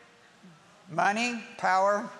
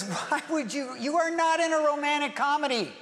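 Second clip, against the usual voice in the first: urgent warning; 6 semitones higher than usual. Retold or imitated. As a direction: warn them hard, almost shouting. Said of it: "he goes".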